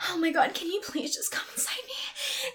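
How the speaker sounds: high-pitched put-on plea; hammed-up, high pleading; acted eager begging. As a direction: beg sweetly in a high voice. Acts out begging the client.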